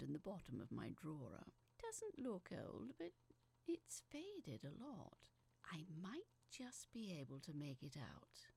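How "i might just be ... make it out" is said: soft unvoiced whisper. Real, not acted. Confiding to the listener in a hushed whisper. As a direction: breathe the words without voice. Whispered while squinting at letter.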